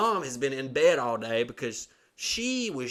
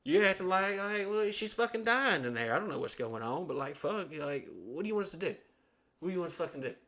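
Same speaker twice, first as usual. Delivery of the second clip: higher, incredulous rant; exasperated; 6 semitones higher than usual. Retold or imitated. Son ranting at dad outside the ER, higher and incredulous. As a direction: vent at dad in disbelief. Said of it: "I'm like".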